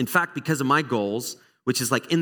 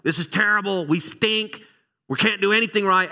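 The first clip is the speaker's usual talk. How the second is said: frustrated self-quote; 7 semitones higher, 3 dB louder than usual. Retold or imitated. Coach retelling his frustration after a loss.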